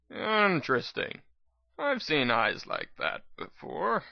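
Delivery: a hint of grim old medic; old doctor, grim. Doctor studies the narrator's eyes, grim and quiet.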